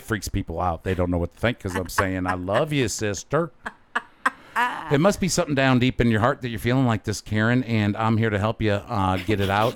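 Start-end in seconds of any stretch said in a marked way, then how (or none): 2.3-9.8 light preacher voice, loving and fast; a hint of televangelist calm; Joel Osteen impersonation. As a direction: soothe her like a TV preacher. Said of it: "Joel Osteen impersonation".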